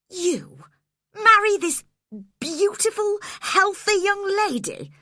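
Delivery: high, loud disbelief; outraged cry. A narrator's reading. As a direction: shout in shocked outrage. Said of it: "I cried".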